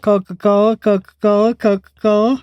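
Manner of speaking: Coca-Cola with lips held apart, repeated; lips not touching. Shown as a demonstration. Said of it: "Let me see it again".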